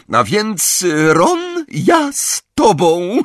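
very high, loud character call; bright high-pitched holler to a friend. A narrator's reading. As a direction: call over in a high, drawn-out voice. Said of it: "zawołała Tonks".

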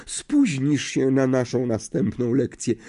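high, slow, trembling seer voice; theatrical seer wailing over the boy; anguished seer. A narrator's reading. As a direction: clutch your heart and refuse to tell. Trelawney's prophecy to Neville.

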